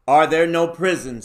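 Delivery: loud mocking question; scornful retort. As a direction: throw his own words back. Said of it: "turning on him with his own words".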